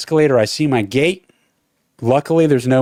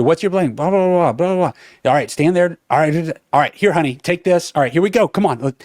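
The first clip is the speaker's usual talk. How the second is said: higher-pitched, brisk imitation of a busy agent; hustling agent; 4 semitones higher than usual. Airport agent rushing a traveler through sign-up, hustling. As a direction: rattle it off as if rushing someone along. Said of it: "She's hustling through".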